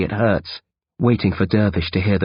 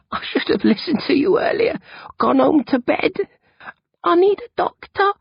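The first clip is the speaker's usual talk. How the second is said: put-on higher, half whispered sick boy; weak whispery boy. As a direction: barely voice it, feeling ill. Bill E voiced, weak.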